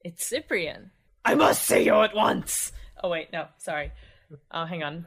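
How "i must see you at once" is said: loud, drawn-out melodramatic cry; mistaken frantic shout. Acted. Caller on the telephone to a friend, overdone urgent shout. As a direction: shout it with hammy urgency, far too big. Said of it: "Dead, hopeless tones of the voice".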